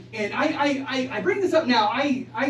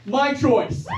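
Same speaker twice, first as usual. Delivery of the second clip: mock indignant retort; 4 semitones higher, 3 dB louder than usual. Mock outrage at the doctor.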